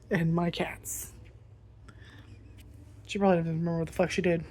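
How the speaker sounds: usual speaking voice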